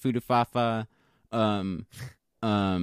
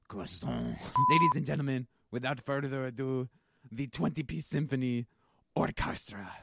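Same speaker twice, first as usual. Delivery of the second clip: French pirate; 3 dB quieter than usual. Acted. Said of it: "sounding like a fucking French pirate".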